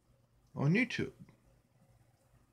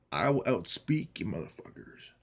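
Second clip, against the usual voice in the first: normal talking voice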